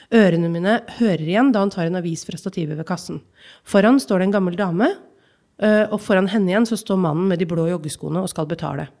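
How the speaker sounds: measured reading of a literary excerpt; calm, even narration of a childhood memory; story reading. Acted. Reads novel excerpt aloud.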